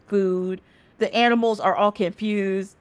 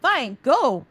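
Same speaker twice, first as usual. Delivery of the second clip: mock huffy, slightly raised pitch; huffy retort; 5 semitones higher than usual. Sun refuses to leave Moon the house, huffy. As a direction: play an exasperated refusal, quick at the end.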